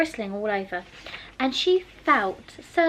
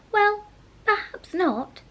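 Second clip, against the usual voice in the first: soothing; 10 semitones higher, 4 dB louder, slower than usual. A narrator's reading. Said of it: "in a soothing tone".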